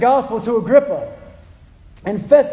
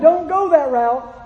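slow, higher plea; pleading; 4 semitones higher, slower than usual. Retold or imitated. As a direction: beg him to turn back, slowly. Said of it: "So I'm pleading with him".

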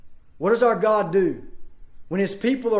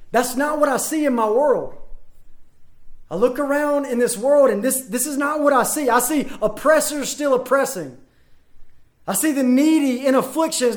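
raised, indignant protest; angry objection; 4 semitones higher than usual. Retold or imitated. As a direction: push back hard and indignantly. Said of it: "they might angrily object to me and say".

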